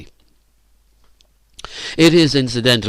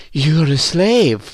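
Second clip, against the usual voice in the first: slow, high mocking taunt; laughing taunt; 5 semitones higher, 3 dB louder, much slower than usual. A narrator's reading. Phyllis mocks the dejected Virginia, laughing taunt. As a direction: drag it out in mockery. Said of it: "laughed Phyllis".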